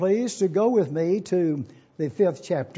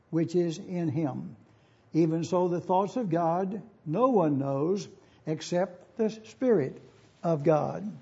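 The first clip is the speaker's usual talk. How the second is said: scripture reading. Acted. Reads Scripture aloud to congregation.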